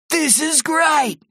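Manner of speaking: high, drawn-out cheer; high-pitched excited exclamation; thrilled. A narrator's reading. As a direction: stretch it out with delight. Terry thrilled Barky has come.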